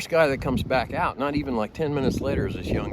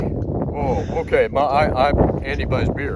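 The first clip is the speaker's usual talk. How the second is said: put-on German kid accepting name; 5 semitones higher, 6 dB louder than usual. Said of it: "he's like".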